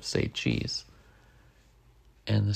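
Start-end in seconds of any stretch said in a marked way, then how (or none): 0.0-0.9 breathy whispered say cheese; whispered aside. Retold or imitated. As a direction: drop to a whisper for the usual line. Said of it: "instead of".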